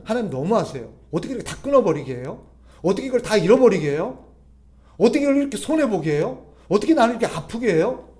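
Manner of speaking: mock pleading complaint, pitch climbing; acted protest. Believers complaining to God that he is too harsh, acted protest. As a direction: voice an aggrieved protest, rising as it goes.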